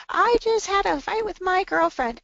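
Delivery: put-on high, loud put-upon teenager; mock teen complaint.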